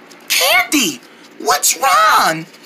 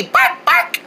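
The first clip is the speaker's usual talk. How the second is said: dog bark; 7 semitones higher than usual. Shown as a demonstration. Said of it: "Let's say bark noises like a dog".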